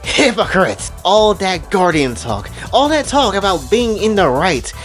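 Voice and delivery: mock angry scream. Fighter screams at the transformed Fu, mock outrage. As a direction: act out an indignant yell, not full volume. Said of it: "Shoko just screams at her".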